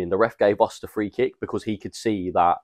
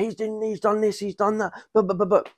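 mock whiny moaning; 13 semitones higher than usual. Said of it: "he's like".

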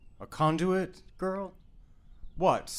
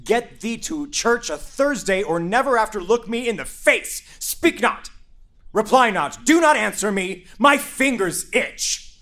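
furious father. Acted. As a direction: berate her, barely holding back. Father rages at disobedient daughter.

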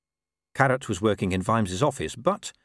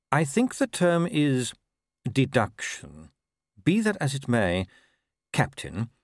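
measured patrician; 4 semitones higher than usual. Acted. Patrician to captain granting leave instead of resignation, measured. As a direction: pronounce a composed, considered decision.

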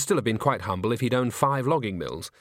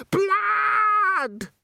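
long, very high shriek; screamed; 4 dB louder than usual. A narrator's reading. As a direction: hold the scream on the one word. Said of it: "screamed Christine".

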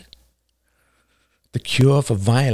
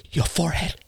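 high, hushed warning; urgent whisper; 8 semitones higher, 6 dB quieter, faster than usual. A narrator's reading. Man closest to the bearded man pointing, alarmed whisper. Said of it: "pointed and whispered".

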